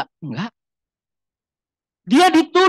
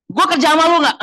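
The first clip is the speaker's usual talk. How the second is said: worldly retort; 8 semitones higher, 4 dB louder, faster than usual. Retold or imitated. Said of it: "bahasa duniawi ya".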